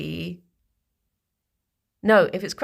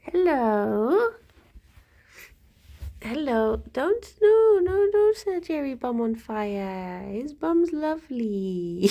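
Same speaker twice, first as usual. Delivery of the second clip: lilting, swooping pet-talk voice; cooing to pets; 3 semitones higher than usual. Real, not acted. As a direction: fuss over a little creature in singsong. Cooing to little animals.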